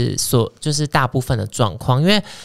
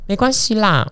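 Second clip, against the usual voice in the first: mock sulky jab; 5 semitones higher than usual. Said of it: "撂狠话".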